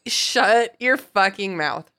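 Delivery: slow, word-by-word command; stern silencing. Acted. Acting out Dumbledore silencing Fudge, slow and stern. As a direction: shut him down with deliberate weight.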